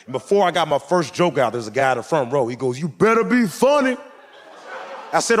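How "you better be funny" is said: high, loud mock heckler; heckler taunt. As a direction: challenge him from the front row. Heckler threatening from front row.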